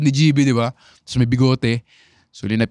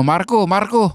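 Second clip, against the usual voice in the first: calling out; 6 semitones higher than usual. Retold or imitated. High schooler calling out to friend Marco, calling. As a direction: call across to a friend. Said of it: "tinawag ko yung kaibigan ko".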